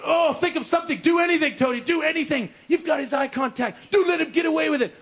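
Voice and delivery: high, frantic inner voice; high, pressing desperation; panicked self-urging. Acted. Panicked inner thought acted out.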